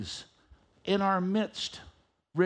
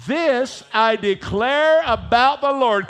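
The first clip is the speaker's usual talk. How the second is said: louder, emphatic declaration; said like you mean it; 3 semitones higher, 8 dB louder, slower than usual. Shown as a demonstration. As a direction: proclaim it with conviction. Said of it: "Say it like you really mean it".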